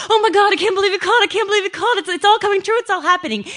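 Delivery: high, fast, loud giddy squeal through laughter. Retold or imitated. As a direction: squeal like a teen who just got the call. Giddy reaction after phone call.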